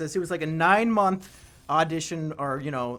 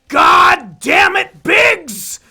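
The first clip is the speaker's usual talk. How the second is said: slow, much higher, much louder enraged yell; furious shout; 12 semitones higher, 15 dB louder, much slower than usual. Retold or imitated. CEO on a business call screams at Biggs, furious shout. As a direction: explode at him with drawn-out rage. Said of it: "And he says".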